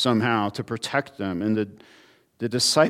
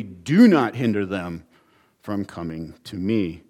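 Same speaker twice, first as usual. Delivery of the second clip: "Do not hinder them" with the weight on "Do", falling; firm prohibition; 4 semitones lower than usual. Shown as a demonstration. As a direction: press "Do" down firmly. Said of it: "and negatively".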